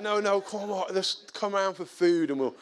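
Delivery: retold persuasion, pitch lifted; insistent coaxing. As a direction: talk him round after a refusal. Insisting after he refused.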